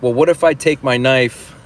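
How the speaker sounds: eager mock pleading. Traveler bargaining with airline staff, eager mock pleading. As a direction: pitch it up like a sudden bright idea.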